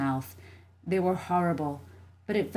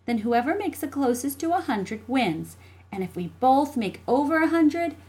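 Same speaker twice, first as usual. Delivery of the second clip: lightly voiced, higher child; insistent little sister; 7 semitones higher, 4 dB louder than usual. Jessie settling terms with her brother, insistent. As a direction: spell out who wins. Child character sets rules.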